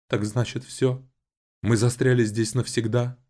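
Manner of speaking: on the edge of crying; close to tears. A narrator's reading. Agata asks her brother, almost in tears. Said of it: "готова разрыдаться".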